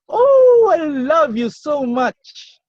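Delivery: high, loud gushing "Oh", then slow; delighted parent. Retold or imitated. Parent answering the child, high loud gushing delight. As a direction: gush over the child with joy. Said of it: "and you will say".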